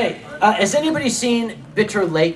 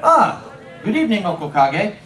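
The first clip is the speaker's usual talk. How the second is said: imitating Viking fan. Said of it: "will come to me and say".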